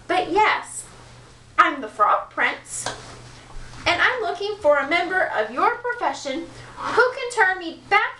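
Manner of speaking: flustered prince. Acted.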